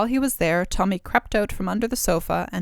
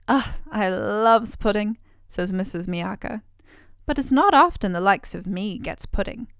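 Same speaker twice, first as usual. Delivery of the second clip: lightly voiced ogre's wife. Ogre's wife speaks to Tommy.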